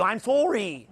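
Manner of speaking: exaggerated Canadian "sorry"; mock Canadian apology, long round O; Canadian accent. Shown as a demonstration. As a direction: say it in your most Canadian accent. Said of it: "in my most Canadian accent".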